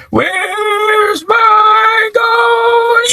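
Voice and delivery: very high, slow ghostly wail; cousin's ghost voice. Retold or imitated. Cousin telling kids a ghost story, high eerie wail. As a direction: draw every word out like a haunting spook. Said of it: "So he'll be like".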